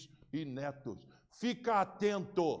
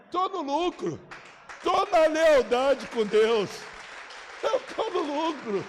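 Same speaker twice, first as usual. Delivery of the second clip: loud, higher, slow exultant preaching; loud high fervent preaching; preaching fervor; 7 semitones higher, 7 dB louder than usual. Real, not acted. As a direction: proclaim it to the church. Preaching climax about being alive.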